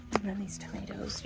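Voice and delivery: soft whispered aside. Real, not acted. To the viewers about droopy tomatoes, a whisper. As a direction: drop to a whisper for the plants.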